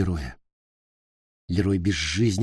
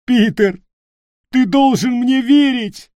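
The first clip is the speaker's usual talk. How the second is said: high, loud, slow crying plea; tearful begging; 7 dB louder than usual. Acted. Leroy begging Peter to believe him, tearful. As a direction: beg him through tears. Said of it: "Лерой уже плакал навзрыд".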